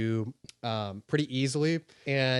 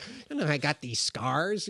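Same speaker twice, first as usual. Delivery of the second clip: Joker impression; 4 semitones higher than usual. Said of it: "You're actually quite good at impressions".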